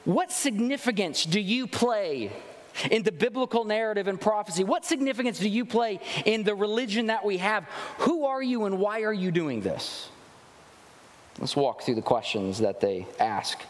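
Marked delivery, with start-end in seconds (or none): 0.0-10.1 higher, probing voice of the priests; questioning delegation. Retold or imitated. Priests questioning John, a touch of pointed demand. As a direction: press him with the question, mildly acted. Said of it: "what they're asking is".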